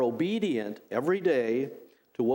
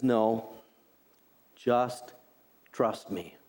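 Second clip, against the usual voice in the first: God reassuring; 3 semitones lower, slower than usual. Retold or imitated. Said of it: "God says".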